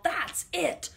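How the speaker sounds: high loud outburst; yelled. Acted. Farmer losing patience with horses, high yelled outburst. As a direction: snap out in fury. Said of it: "farmer yelled".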